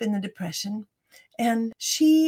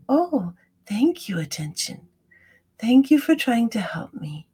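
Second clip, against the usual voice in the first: gentle thanks. Shown as a demonstration. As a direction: thank your wandering mind like a friend. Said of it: "just say".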